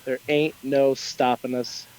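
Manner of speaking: put-on a rough, hammy Brooklyn accent. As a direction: street vendor hawking in Brooklyn accent. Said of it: "That's my horrible Brooklyn accent".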